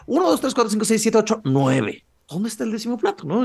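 high-pitched rapid count, dropping on the last; anxious recount. Acted. Anxious recount after finding one missing.

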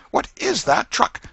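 high, loud demanding question; sharp scold. A narrator's reading. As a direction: point at the jam and demand. Aunt scolding boy.

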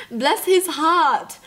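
drawn out very slowly, tender and sincere; slow, heartfelt bless. Real, not acted. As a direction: melt over a kind stranger. Touched by man helping elderly lady.

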